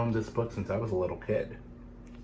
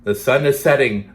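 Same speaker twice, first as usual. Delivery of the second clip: runner calling; 7 dB louder than usual. Acted. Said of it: "the runner called".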